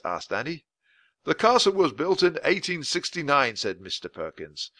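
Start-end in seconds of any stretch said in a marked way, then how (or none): 1.2-3.6 a hint of a proper old-fashioned gentleman; polite official explaining; lightly voiced weather man explains the castle to children. Voice of Mister Perkins.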